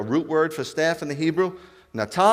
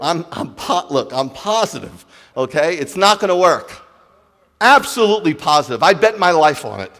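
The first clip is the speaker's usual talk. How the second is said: louder, rising insistence, absolutely sure; insistent Moses; 3 semitones higher, 9 dB louder than usual. Acted. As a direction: hammer home that it will never work. Moses pleads, insisting he's sure.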